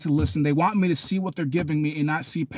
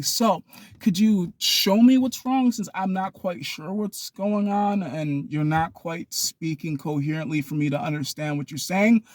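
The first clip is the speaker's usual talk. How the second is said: calm. Acted. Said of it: "it's with that calmness".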